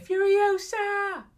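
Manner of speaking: high, slow, drawn-out shout of the title; hyped title cry. Retold or imitated. Vlogger retells a week of chanting, high excited cry. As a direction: belt it like a movie trailer. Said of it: "I kept saying".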